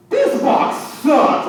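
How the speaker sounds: high, slow mock child voice; bratty little girl. Little girl rejecting his homemade Valentine's box, high bratty imitation. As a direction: imitate a blunt, unimpressed kid.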